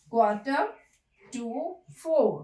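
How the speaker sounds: Quarter with no r sound, to four with a dropped r; non-rhotic quarter. Shown as a demonstration. Teacher models the answer, four with r silent. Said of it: "क्या बोला जाएगा".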